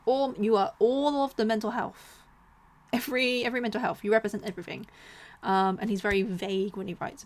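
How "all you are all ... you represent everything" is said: mock outrage. Mocking the mental health label.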